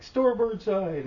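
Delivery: high, loud, slow call-out; imitated long-distance command; commands from the bridge. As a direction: holler it as a drawn-out ship's order. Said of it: "they're like".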